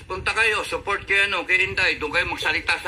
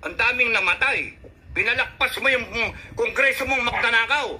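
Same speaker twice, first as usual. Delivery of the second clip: raised pitch, heated cursing tirade; furious rant; 4 semitones higher than usual. Real, not acted. Ranting at the president over the applause, angry. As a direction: let the anger spill out high and fast. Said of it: "gigil ako".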